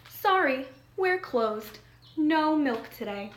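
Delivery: put-on lively storybook reading for young listeners; reading to children. A narrator's reading. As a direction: read the picture book aloud to a class. Reads picture book to children.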